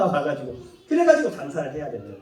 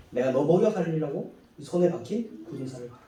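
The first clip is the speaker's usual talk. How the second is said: quieter, lower, tired father; weary father; 4 semitones lower, 6 dB quieter than usual. Retold or imitated. Hardworking father answering his ungrateful child, quiet and weary. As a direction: show the calluses with quiet reproach. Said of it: "손에 굳은 살을 보여주는".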